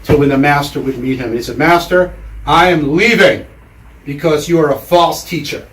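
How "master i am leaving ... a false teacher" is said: louder, raised-pitch mild indignation; fed-up student. Acted. Student quitting on his Zen master, mildly acted exasperation. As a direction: announce it firmly, like a student who's had enough. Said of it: "the student had had enough".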